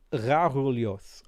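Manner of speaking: Rarulios slowly sounded out; unsure pronunciation. Real, not acted. Streamer trying out an unfamiliar name, unsure pronunciation. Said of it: "I don't know how to say it".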